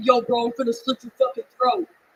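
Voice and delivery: put-on man voice. Retelling what was said after a performer was touched on stage: put-on man voice. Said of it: "gotten my man voice out".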